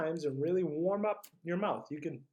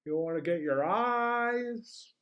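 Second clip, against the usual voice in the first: talking through a big yawn; 5 semitones higher, 6 dB louder, slower than usual. Shown as a demonstration. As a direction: stretch the words into a yawn. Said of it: "match my face".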